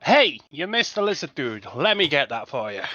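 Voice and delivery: called out with a little extra punch; half-hearted shout to a companion, easing off; mock shout. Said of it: "just shout out".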